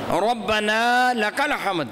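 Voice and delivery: ربنا لک الحمد slowly and carefully; correct recitation. Shown as a demonstration. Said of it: "میں مثال دینا چاہتا ہوں". (آہستہ اور صحیح ادائیگی)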